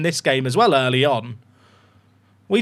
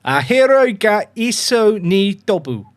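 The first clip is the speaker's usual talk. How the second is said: Japanese phrase in a weird accent, higher and slower; weird panicked accent; 4 semitones higher, 3 dB louder, slower than usual. Shown as a demonstration. Streamer repeating a Japanese translation to chat, weird accent. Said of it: "put a weird accent on".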